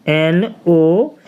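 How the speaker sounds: "एनओ" said as two slow separate letters; spelled out slowly. Shown as a demonstration. Teacher spelling out the word for learners, slow. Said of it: "इसको हम पढ़ेंगे नो".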